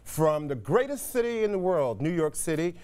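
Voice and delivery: upbeat broadcast host opening; TV host intro. Acted. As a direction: present it like a live TV show open. Host's TV show opening.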